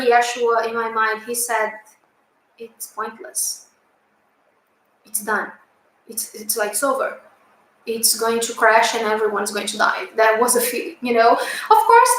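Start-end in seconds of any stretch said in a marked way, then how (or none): 2.6-10.1 loving, gentle. Retold or imitated. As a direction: break the bad news lovingly, softly. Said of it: "he said that in a loving way".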